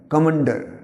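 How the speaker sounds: "কমান্ডার" with the stress on "মা"; stress on second syllable. Shown as a demonstration. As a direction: lean on the middle of "কমান্ডার". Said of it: "ময়ের উপরে একটা stress পড়বে". ("কমান্ডার" মাঝের অক্ষরে জোর)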